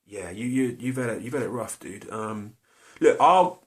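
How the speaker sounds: breezily fob him off, climbing up into a high far voice; breezy brush-off. Retold or imitated. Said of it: "You'd think he'd go".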